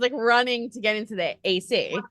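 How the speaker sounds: ordinary talk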